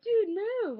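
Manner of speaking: sharp high shout to get out of the way; retold yell. A rider yelling across the arena to clear the way, loud. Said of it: "yells at me".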